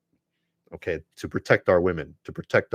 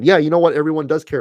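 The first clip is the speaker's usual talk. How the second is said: louder, higher burst of agreement; loud retort; 6 semitones higher, 8 dB louder, faster than usual. Real, not acted. Retorting loudly to red pill guys' complaint. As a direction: fire it back at them, loud.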